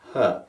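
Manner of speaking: easy breathy huh sound; a simple relaxed huh; soft huh. Shown as a demonstration. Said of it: "as you sustain that voice".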